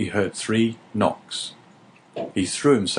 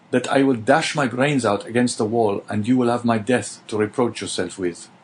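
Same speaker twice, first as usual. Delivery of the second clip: put-on pleading young prisoner, pitched higher, voice rising to despair; desperate young prisoner; 3 semitones higher than usual. Prisoner Dante begs his unseen neighbour not to abandon him, desperate. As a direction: beg him not to leave you, close to breaking.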